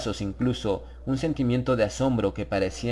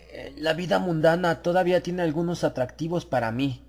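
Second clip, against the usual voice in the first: light, cheerful and higher; an Englishman's jovial, higher reply; 6 semitones higher than usual. A narrator's reading. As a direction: toss it off jovially, a touch self-mocking. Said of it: "respondió con jovialidad".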